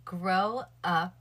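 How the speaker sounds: stiff, robotic delivery, each word set down flat. Shown as a demonstration. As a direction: say it like a robot reading a line. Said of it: "I said it like a robot".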